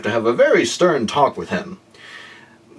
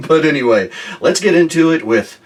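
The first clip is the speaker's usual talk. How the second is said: talking while chewing gum; 3 semitones higher than usual. Real, not acted. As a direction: chew gum as you speak. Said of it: "I have a piece of gum in my mouth".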